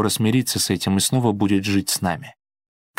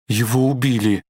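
wailing cry; 3 semitones higher than usual. A narrator's reading. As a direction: wail it out in despair. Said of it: "вопила она".

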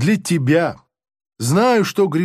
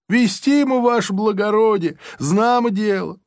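pleading prisoner; 5 semitones higher than usual. Acted.

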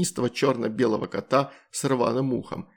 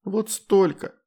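usual speaking voice

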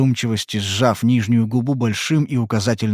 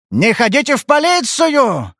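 furious shout; 13 semitones higher, 4 dB louder, slower than usual. Acted. He echoes her plea in a furious yell. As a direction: yell it back, high and loud. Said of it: "заорал он в ярости".

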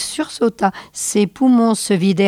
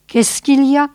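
Missy cries out, higher and louder; alarmed cry from Missy to her laughing husband; cried out; 6 semitones higher, 4 dB louder than usual. A narrator's reading. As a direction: call out in alarm. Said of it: "s'écria Missy".

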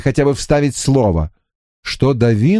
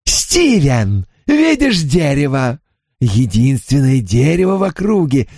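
gleeful spirit voice; 3 semitones higher than usual. Acted. Spirit gleefully plans hanging.

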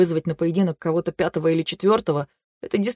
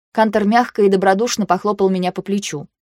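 ordinary delivery

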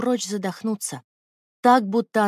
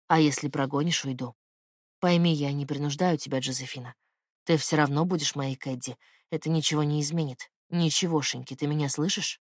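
lightly lowered man's voice, intimate; low male lover voice; 5 semitones lower than usual. Acted. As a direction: speak low as the tender man.

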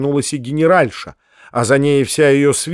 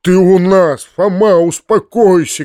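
loud, higher-pitched call; raised-voice urging; shouting; 5 semitones higher, 6 dB louder than usual. A narrator's reading. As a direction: shout to calm someone down. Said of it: "крикнул дядя".

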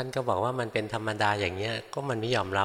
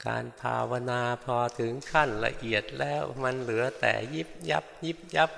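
lightly mimicking an old teacher's deliberate, careful explanation; a hint of a slow-spoken elder monk, each word placed with care; Luang Por Phut's slow speech; 3 semitones higher than usual. Monk fondly imitates his teacher explaining meditation, mild deliberate mimicry. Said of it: "ท่านต้องพูดช้าๆนะ หลวงพ่อพุธ พูดช้าๆนะ".

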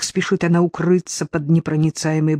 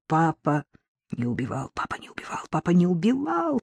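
shrieking; 4 dB quieter than usual. Acted. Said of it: "пронзительно визжала она".

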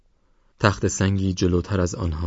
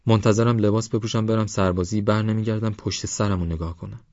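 lightly voiced youngster, raised pitch; a hint of stubborn youthful resolve; defiant young Parvaz; 4 semitones higher than usual.

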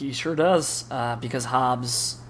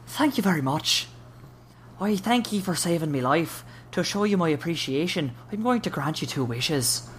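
lightly Irish leprechaun voice; a hint of an Irish brogue, grateful; Irish accent; 3 semitones higher than usual. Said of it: "he thanks him in an Irish accent".

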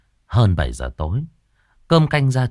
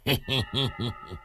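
snickering cackle; 4 semitones higher, 8 dB quieter than usual. Acted. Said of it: "cười khanh khách".

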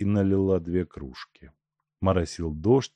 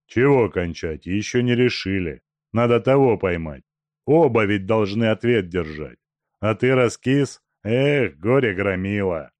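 louder, rough bandit voice; грубый голос Тумбы; 3 semitones higher, 5 dB louder than usual. Acted. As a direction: bark it at a weak accomplice. Бандит Тумба грубо отвечает. (грубый голос бандита)

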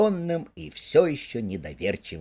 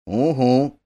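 louder, drawn-out "угу"; slow grunt; 5 dB louder than usual. Acted. Mole slowly answering Rat. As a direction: drag out the sound slowly. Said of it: "медленно вымолвил он".

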